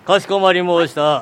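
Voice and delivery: lightly voiced old samurai lord; warlord speech. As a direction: speak like a feudal warlord. (武将言葉)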